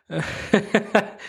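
high burst of laughter; real high-pitched laughing fit. Real, not acted. Laughing at his own joke.

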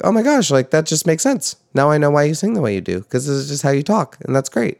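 high-pitched, quickening burst of revelation; retold realization. Recalling meeting a favorite singer, delighted realization.

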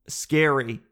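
ordinary talk, nothing marked

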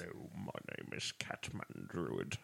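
slow, low put-on character voice. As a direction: lightly mimic his character voice. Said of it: "my character voice".

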